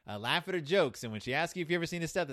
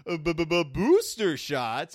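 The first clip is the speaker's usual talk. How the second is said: louder, slow stammering panic; freaked-out kids; 2 semitones higher, 9 dB louder than usual. Retold or imitated. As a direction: stutter in mock terror at the shot. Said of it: "And they freak out".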